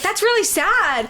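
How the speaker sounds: high, slow mock-sad voice; retold pity. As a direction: draw it out plaintively, imitating her. Sister pitying the hobbits, retold.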